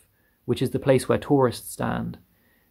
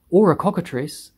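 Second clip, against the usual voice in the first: higher, put-on alarmed voice; police chief's yell; 5 semitones higher than usual. A narrator's reading. Police chief guesses the monster, yelling. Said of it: "yelled the chief of the police".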